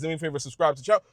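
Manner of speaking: rattled off fast, like a pushy opener; rushed mock plea. Mocking creators who beg for subs too early, fast. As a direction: gabble the subscribe request in one breath. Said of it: "not saying in the first fifteen seconds".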